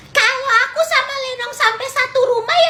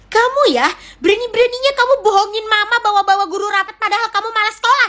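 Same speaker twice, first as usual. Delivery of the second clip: scolding; faster than usual. Acted. Mother scolds lying child.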